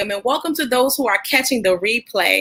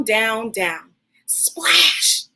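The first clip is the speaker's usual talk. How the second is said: breathy whisper down, down, splash; whispered dive; much slower than usual. Acted. Narrator following divers down into the pool, whispered. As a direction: hush it as they drop into the water. Kids diving down.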